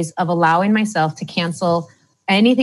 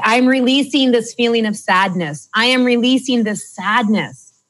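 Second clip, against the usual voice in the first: higher and firmer declaration of "I'm releasing this feeling of sadness"; firm affirmation; 4 semitones higher than usual. Shown as a demonstration. Coach modelling the release words, firm declaration. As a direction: state it like a decision, a little raised. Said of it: "Then you're gonna say".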